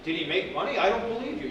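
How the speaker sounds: quick question with a rise, then disbelief; disbelieving emphasis. Shown as a demonstration. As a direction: challenge it, pitch jumping about. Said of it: "You gotta add something on".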